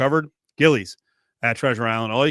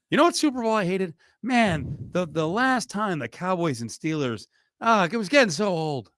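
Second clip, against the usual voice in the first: mock complaint; 6 semitones higher than usual. Mimics a fan complaining of matchup fatigue.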